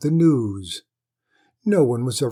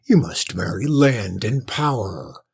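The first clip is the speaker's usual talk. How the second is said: stern father; 2 semitones lower, 5 dB louder than usual. Acted. Lord ordering his son whom to marry. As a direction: lay down the law.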